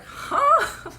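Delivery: high laughing huh of disbelief; baffled huh. Retold or imitated. Baffled by her brother's workout logic, high laughing huh. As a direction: squeak it out, laughing and confused.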